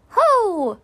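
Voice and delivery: high, loud, slightly anxious HO; small creature's uneasy high call; a little worried. A narrator's reading. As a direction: pipe up with a touch of worry. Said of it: "he sounded a little worried".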